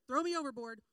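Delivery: loud, overblown demand; mock dramatic yell. Jonah shouting at the sailors, hammed-up and loud. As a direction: belt it like a sulking prophet.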